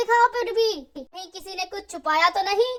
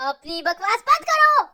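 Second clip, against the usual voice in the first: loud, sharp command to shut up; angry order; 6 dB louder than usual. Acted. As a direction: silence the mockers. Princess scolds the laughing ones.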